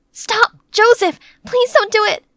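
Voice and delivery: high desperate shout at him to stop; pleading shout. Acted. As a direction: yell to stop a raging friend. Joseph smashing things, howling.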